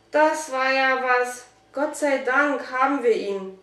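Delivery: drawn-out start, mild relief; relieved. A narrator's reading. Boy glad the dog is caught, mild relief. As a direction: let the tension go a little. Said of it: "sagte Dominik erleichtert".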